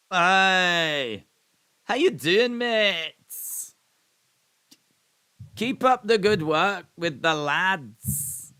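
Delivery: loud, high, hammed-up Scottish accent; Ali McCoist. Proving the impression to viewers, exaggerated loud Scottish accent. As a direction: belt out a mock Scottish accent, drawing out the ends. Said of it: "that was a Scottish accent".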